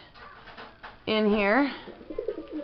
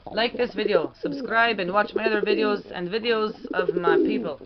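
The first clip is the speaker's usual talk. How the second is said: Petrie's voice. Pretend. The pigeon Pete telling viewers to subscribe, in a lightly voiced made-up accent. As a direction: cheerfully sign off the video as the pigeon in an invented accent. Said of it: "But it is Petrie's voice".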